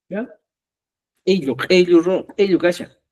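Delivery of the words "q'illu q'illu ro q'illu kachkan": Ello with a hard throaty burst at the start; pronunciación cusqueña. Shown as a demonstration. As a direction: pop the first sound of each ello. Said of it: "en Cusco decimos". (ello cusqueño, con inicio fuerte de garganta)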